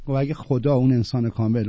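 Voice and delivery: ordinary delivery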